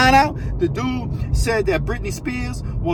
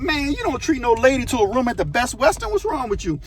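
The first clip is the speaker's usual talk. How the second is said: retold scolding in a higher voice; incredulous scolding; 4 semitones higher than usual. Friend objects to the lady's motel date, incredulous scolding. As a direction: chide a foolish friend, mock disbelief.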